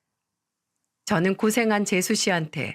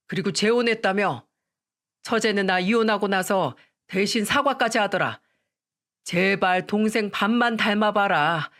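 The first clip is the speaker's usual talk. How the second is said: mild mock yell. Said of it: "제가 큰 소리를 치며 다그치자".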